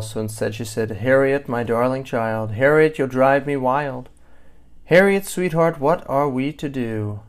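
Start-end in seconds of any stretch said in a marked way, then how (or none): 0.9-4.1 restrained exasperation. A narrator's reading. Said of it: "Her mother didn't like to yell". 4.8-7.2 restrained exasperation. A narrator's reading. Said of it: "Her mother didn't like to yell".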